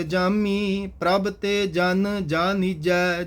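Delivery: measured Gurbani chant-reading with drawn-out line endings; scripture recitation. Acted. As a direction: recite each verse slowly and evenly. Recites scripture, plain talk later. (Gurbani ਦਾ ਸਹਿਜ ਪਾਠ)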